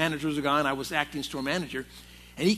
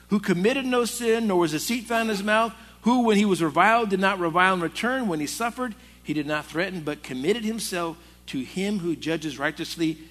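scripture reading. Acted. Preacher reads scripture aloud.

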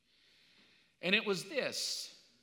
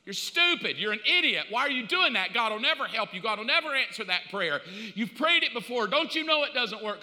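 life screaming; 3 semitones higher, 4 dB louder than usual. Acted. Life yelling insults at the climbing believer, loud. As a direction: jeer at the climber. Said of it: "life's gonna scream louder".

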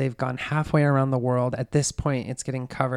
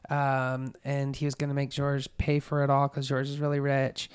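even, matter-of-fact run-on account; totally flat telling. Retold or imitated. Suspect explaining her travels to police, totally flat. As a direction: rattle off events, unmoved. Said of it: "totally flat telling this".

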